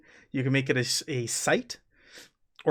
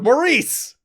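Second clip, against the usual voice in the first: called out to someone across the camp; louder order shouted across the camp; calling over; 2 semitones higher, 4 dB louder than usual. Acted. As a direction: call out an order. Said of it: "He's like, calls over".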